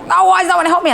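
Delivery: imitating a child's high-pitched cry for help; high, exasperated mock wail; child's frustrated scream.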